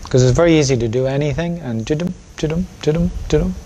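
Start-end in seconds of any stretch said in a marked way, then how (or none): 1.8-3.5 higher-pitched repeated 'ji-dum' noise; sing-song ji-dum, ji-dum; mindless busy chant. Shown as a demonstration. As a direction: imitate going through the motions in nonsense syllables. Mimics mindless, distracted doing.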